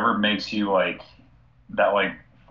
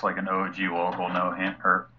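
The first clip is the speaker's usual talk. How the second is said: tipsy. Real, not acted. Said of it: "Sorry, I'm a little bit, uh, tipsy right now".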